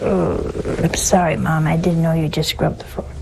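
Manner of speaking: lightly voiced son owning up to Mom; apologetic son. Son apologizing to Mom for muddying the scrubbed floor, mild sheepish apology. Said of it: "he looks down and says".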